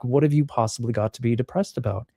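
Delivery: lightly voiced mom, gently dismissive; a hint of a mother waving the worry away; mother's encouragement. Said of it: "typical sort of mother encouragement talk".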